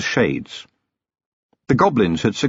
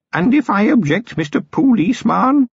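higher, otherworldly goblin voice, measured; an old goblin testing a human, calm and sly; old goblin chieftain; 13 semitones higher than usual. A narrator's reading. Old goblin challenging the policeman who wants to search, calm and sly.

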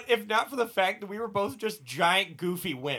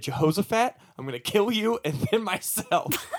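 mock threat; 3 semitones higher than usual. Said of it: "held it to him like a prison shank".

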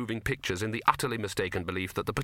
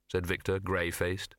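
ordinary delivery

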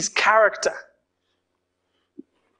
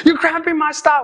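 put-on stomping around his room, a teenager sulks at dad: pouty, pitched-up grumble; sulky teen grumble; 6 semitones higher, faster than usual. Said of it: "march in my room, like, go around in circles and be like".

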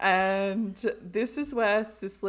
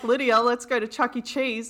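put-on kid voice; 4 semitones higher, 6 dB louder than usual. Kid Toby butting in.

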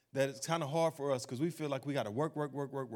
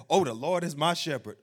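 imitating a shout; 5 dB louder than usual. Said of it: "people start shouting that".

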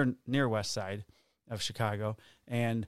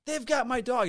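high-pitched upset woman imitation; retold indignant complaint; 11 semitones higher than usual. Dog owner complaining about police, high indignant imitation.

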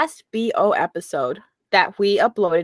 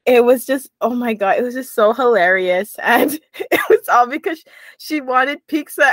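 laughing. Real, not acted. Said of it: "I have tears coming down my face".

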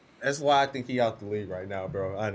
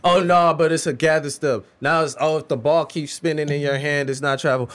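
mocking rant; 2 semitones higher, 7 dB louder than usual. Mocking new travel rules.

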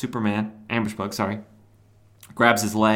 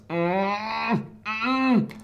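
high, tight effortful hum; straining groan; 12 semitones higher than usual. Retold or imitated. Superman straining to figure out how to teleport, straining groan. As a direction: strain hard with closed lips, acted. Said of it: "he strains, he goes".

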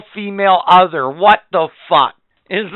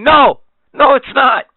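higher and louder flat no; emphatic refusal; 8 semitones higher, 5 dB louder than usual. Real, not acted. Host rejecting the speck-of-dirt argument with a loud no. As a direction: shut the idea down hard.

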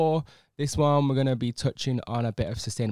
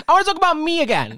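laughing high-pitched, louder; 8 dB louder than usual. Real, not acted. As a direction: squeal it through a laugh. Laughing self-centred tease.

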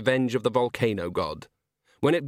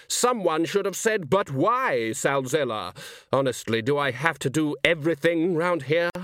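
theatrical complaint, rising higher in places; exasperated villain; 5 semitones higher than usual. Acted. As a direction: chide the audience for missing its cue. Salzella chides his audience.

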